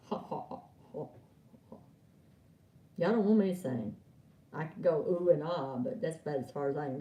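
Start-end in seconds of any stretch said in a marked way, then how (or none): 0.1-1.8 low-key "ha, ha, ha"; soft, voiceless separate ha's; spelt-out laugh. Real, not acted. Spelt-out laugh after allowing laughter.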